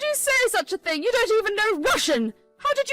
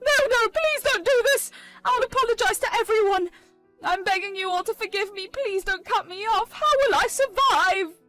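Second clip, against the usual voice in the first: much higher, louder begging, slowing at the end; Pauline's frantic begging; 9 semitones higher, 5 dB louder than usual. Acted. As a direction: beg desperately not to be cut off. Pauline begs not be cut off.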